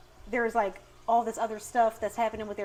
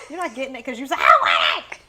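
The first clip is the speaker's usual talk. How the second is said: stern; 4 semitones higher, 11 dB louder, faster than usual. Retold or imitated. Mom scolding tantrum kid.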